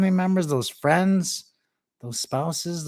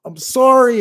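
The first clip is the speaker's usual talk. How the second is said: high, loud mock sob of sorry; crying apology; 8 semitones higher, 12 dB louder than usual. Dad breaking down apologizing to his son. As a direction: break down into tears. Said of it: "He started crying".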